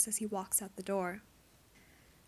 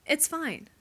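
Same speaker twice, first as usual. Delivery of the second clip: strained; 5 semitones higher, 4 dB louder than usual. Acted. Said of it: "his voice is too high and strained".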